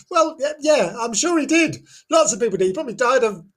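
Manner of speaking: high, giggling sarcastic reply; laughing through it. Real, not acted. Teller laughs at the legend falling flat, high giggling. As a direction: laugh off the weak ending of the legend.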